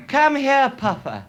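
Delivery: high loud call across the wood; calling the dog. Retold or imitated. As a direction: shout for the runaway dog. Cry went up at wood end.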